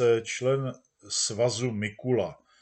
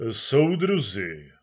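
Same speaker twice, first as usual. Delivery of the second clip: slow, a touch louder orator's call; pleasant baritone; 5 dB louder, slower than usual. Acted. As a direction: greet them like a smooth speaker. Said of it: "zvolal řečník příjemným baritonem". (příjemný baryton řečníka)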